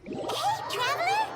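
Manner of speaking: calling out. Acted. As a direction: call out to get their attention. Calling out to the Traveler.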